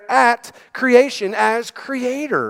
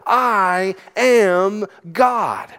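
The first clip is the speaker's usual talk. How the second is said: drawn-out declaration; much slower than usual. Acted. Jesus' claim voiced, drawn out.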